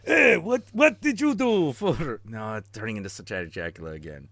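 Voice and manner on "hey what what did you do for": put-on German accent. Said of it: "come up with German accent".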